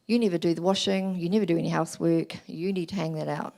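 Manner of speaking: a mild nagging accusation, stress on never; critical. Shown as a demonstration. Wife to husband about wet washing, mildly critical. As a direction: demo of the wrong, critical way. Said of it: "That would not be a good way of putting it".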